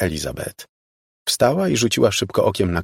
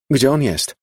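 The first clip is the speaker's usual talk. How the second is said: higher, urgent hoarse question; mildly hoarse, raised voice; 6 semitones higher, 4 dB louder than usual. A narrator's reading. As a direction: demand it with a touch of hoarseness. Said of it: "zapytała ochrypłym głosem Elizabeth".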